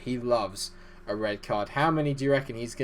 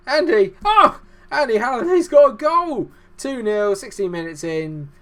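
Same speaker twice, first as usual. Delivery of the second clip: excited; 12 semitones higher, 13 dB louder than usual. Real, not acted. Goal scored in football game.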